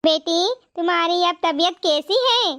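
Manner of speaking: put-on a caring granny soothing two wet girls; kind old woman. Old woman inviting the crying girls home, gentle and low.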